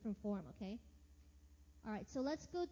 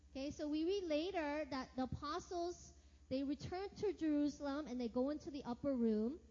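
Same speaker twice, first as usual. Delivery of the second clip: ordinary delivery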